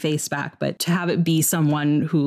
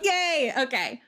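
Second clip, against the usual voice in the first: much higher yay with a laugh; 7 semitones higher, slower than usual. Real, not acted. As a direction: squeal it through laughter. Cheering Sothis' return.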